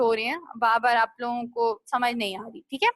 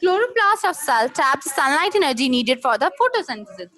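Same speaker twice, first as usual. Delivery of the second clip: slow dictation; 4 dB louder, much slower than usual. Shown as a demonstration. Teacher dictates a definition.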